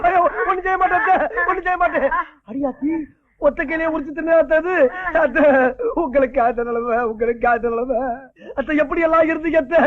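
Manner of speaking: hammed-up wail over the sick mother-in-law; mock wailing lament. Husband fake-mourns his mother-in-law for the inheritance, hammed-up wailing. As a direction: overdo the grief, calling out to her again and again.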